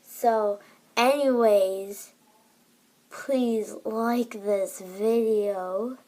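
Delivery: slow, loud burped words; burping the words. Pretend. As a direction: burp out each word slowly. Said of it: "outro in my real voice".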